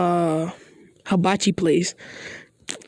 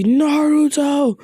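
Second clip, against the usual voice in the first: drawn-out call of the name, higher and slow; a father's booming summons at the door; stern dad calling out; 6 semitones higher, much slower than usual. Retold or imitated. Father catching daughter's date at the door, stretched-out stern call.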